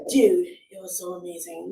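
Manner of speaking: breathy gasp then awed dude voice; different voice. Shown as a demonstration. Voice actor demoing a guy bragging about the mall. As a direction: gasp and gush like a young guy. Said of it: "this is not the voice I normally use".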